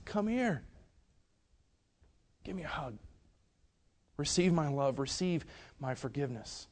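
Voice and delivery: put-on softly coaxing, as to a child; gentle, pleading welcome; tender invitation. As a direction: invite them softly into a hug. God inviting with open arms.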